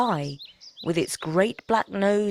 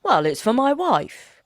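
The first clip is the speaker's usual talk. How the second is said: woodman; 6 semitones higher, 4 dB louder than usual. Acted. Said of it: "returned the woodman".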